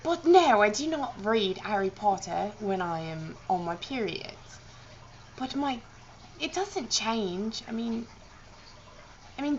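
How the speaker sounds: amateur mock-British chat; playful British English impression; put-on British accent. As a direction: keep up a badly faked British accent. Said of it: "my British accent is probably atrocious".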